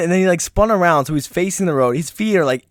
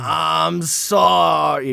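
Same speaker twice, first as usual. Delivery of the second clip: slow drawn-out sorry; much slower than usual. Retold or imitated. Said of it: "So that's how he always says".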